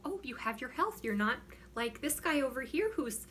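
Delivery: lightly put-on Minnesota accent; a touch of mock-cheery Minnesota accent. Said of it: "talking like I'm from Minnesota".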